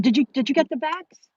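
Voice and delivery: pointed question. Retold or imitated. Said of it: "That's what I said".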